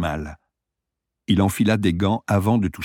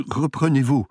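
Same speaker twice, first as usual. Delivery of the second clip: strangled voice; 7 semitones higher than usual. A narrator's reading. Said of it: "murmura-t-il d'une voix étranglée".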